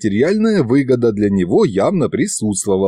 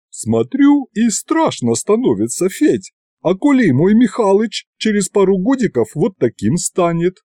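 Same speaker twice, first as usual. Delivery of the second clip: much higher, anxious village woman; worried village aunt; 8 semitones higher than usual. Acted. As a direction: fret about your man turning ghost. Yaguta worries about Mikhalych. (встревоженная тётка, высоким голосом)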